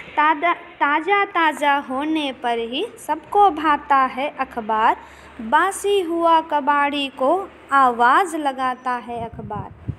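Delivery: slow, measured recital of a verse; steady classroom poem reading; poem recitation. Acted. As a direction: recite the lines to the class with rhythm. Teacher recites third stanza.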